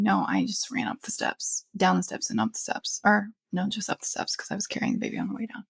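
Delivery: breathless, hushed explaining; short of breath after the stairs. Real, not acted. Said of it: "now I'm out of breath".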